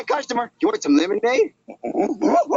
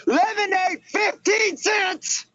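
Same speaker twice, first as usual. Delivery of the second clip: drawn-out hawker cry, a bit higher; street vendor call; 5 semitones higher, much slower than usual. Acted. Kid hawking lemonade to passers-by, slow sing-song call. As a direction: call out the price slowly like a street seller.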